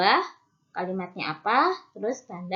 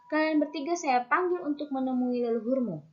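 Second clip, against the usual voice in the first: higher-pitched reading of an order; command intonation; 5 semitones higher than usual. Shown as a demonstration. Teacher reading an example order to pupils, command intonation. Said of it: "dilakukan dengan intonasi perintah".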